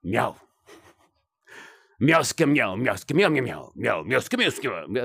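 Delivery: playful mock Russian cat meows; lightly hammed-up cat voice singing meowska; Russian cat meowing. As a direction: meow like a cat putting on a Russian flavour. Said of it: "You're a Russian cat".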